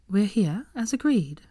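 tight, clipped reply; tense voice. A narrator's reading. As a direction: hold back irritation, tense. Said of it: "Hermione said tensely".

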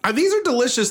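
tipsy, high-pitched and loose. Real, not acted. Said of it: "I'm a little tipsy".

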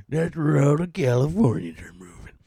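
hushed whispered aside; breathy conspiratorial whisper. Shown as a demonstration. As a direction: whisper it like a secret. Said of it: "repeated in a whisper".

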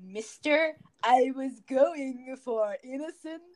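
lightly voiced innocent kid; a hint of gee-whiz kid; wholesome 1950s kid. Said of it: "they go".

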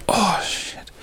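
breathless whispered swear under the breath; whispered curse. Real, not acted. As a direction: hiss it out in sudden pain. Back giving out while standing.

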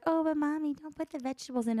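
put-on whiny child. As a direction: beg like a little girl. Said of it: "She's like".

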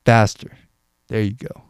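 a motivational coach egging on a runner; coach urging. Shown as a demonstration. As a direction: push the listener mid-run like a trainer. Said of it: "telling you to run faster".

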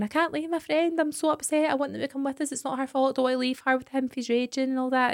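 a hint of a pal close to tears; mock crying friend. Retelling the crying friend at the airport, mildly tearful. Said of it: "the pal was crying, going".

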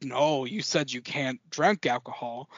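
slow, lightly imitated Southern detective drawl; attempted Southern accent. Detective objects to her drinking, imitated Southern accent. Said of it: "I'm gonna try my best to do, like, the accent".

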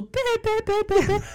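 high mocking bäh bäh; mocking bleat. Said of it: "dann machst du so".

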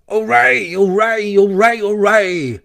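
high, rapid-fire hoorays; rowdy cheering. Acted. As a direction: cheer like a merry crowd at a feast. Revellers cheering behind the door.

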